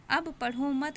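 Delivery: अब पढ़ो मत run together as one phrase; pause after मत. Shown as a demonstration. Teacher shows where to stop, grouping मत with पढ़ो. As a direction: join मत tightly to पढ़ो, then stop. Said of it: "कहकर थोड़ा सा रुकेंगे".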